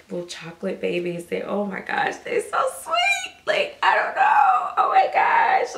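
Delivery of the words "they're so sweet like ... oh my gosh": slow, squealing very high and loud; melting over a doll she adores; excited squeal. Real, not acted. Vlogger gushing over her reborn doll, squealing very high.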